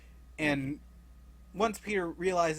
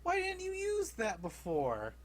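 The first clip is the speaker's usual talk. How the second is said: annoyed. Retold or imitated. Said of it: "Gamora's a bit pissed".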